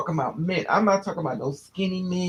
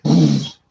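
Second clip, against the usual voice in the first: mock impact noise; 3 semitones lower, 9 dB louder than usual. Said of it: "I'm like".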